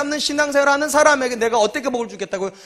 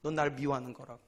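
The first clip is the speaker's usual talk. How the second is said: repeated lower and much softer; softer, lower echo of the rebuke; quiet echo; 9 semitones lower, 14 dB quieter than usual. Pretend. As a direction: let God's words sink in softly. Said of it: "하나님 뭐라고 그러는지 아세요".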